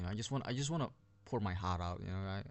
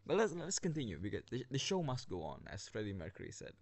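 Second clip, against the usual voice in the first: breathless, pushing through fast; gasping for air between words; out of breath; faster than usual. Real, not acted. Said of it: "I'm running out of oxygen".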